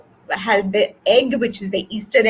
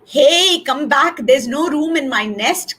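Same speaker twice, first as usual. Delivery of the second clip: higher, loud first call; lightly squawked protest; squawking crow; 6 semitones higher, 3 dB louder than usual. A narrator's reading. Crow calls Cat back to refuse the egg, squawking. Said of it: "Crow squawks".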